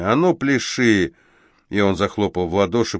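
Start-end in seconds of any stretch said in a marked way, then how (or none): 0.0-1.1 slow threatening command; menacing order. Acted. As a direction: spell out the order slowly. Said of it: "угрожающе сверкнув глазами".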